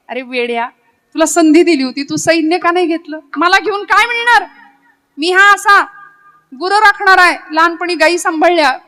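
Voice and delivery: teasing jibe, rising in pitch and force; mocking taunt. God teases Arjuna for not taking the army, mocking. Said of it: "कुत्सितपणे विचारलं, चिडवलं, चिडवलं".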